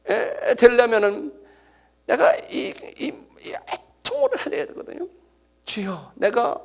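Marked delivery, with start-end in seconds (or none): 5.6-6.6 pleading lament, rising to a high cry; acted tearful plea climbing in pitch; anguished prayer. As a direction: cry out in frustrated longing to God. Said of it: "하고 막 아쉬워하고".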